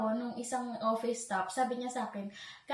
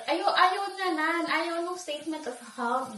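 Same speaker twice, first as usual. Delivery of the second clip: upset complaint; 5 semitones higher than usual. Retold or imitated. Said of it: "umiyak ako sa car".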